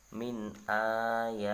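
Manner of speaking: min ayatillah with a light, thin lam; slow Quran demo, light lam; thin Allah. Shown as a demonstration. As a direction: recite it slowly with tarqiq. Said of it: "maka dibaca tipis".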